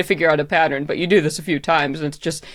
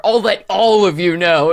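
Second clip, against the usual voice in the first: depressive drag queen; 3 dB louder than usual. Retold or imitated. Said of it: "depressive drag queen voice".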